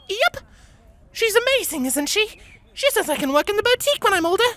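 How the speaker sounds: high, proud, racing gush. A narrator's reading. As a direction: rattle it off bursting with pride. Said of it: "She puffed up with pride".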